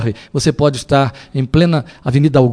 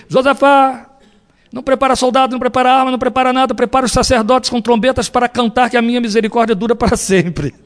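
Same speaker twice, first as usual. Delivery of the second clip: preaching at full force; 8 semitones higher than usual. Acted. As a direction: call it out like a prophet to the king. Profeta falando ao rei no sermão. (pregação inflamada do profeta)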